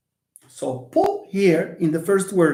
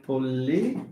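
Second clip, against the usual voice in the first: syllable by syllable; 4 semitones lower, 5 dB quieter than usual. Shown as a demonstration. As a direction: stretch out each syllable of "political". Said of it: "stress has to fall on the".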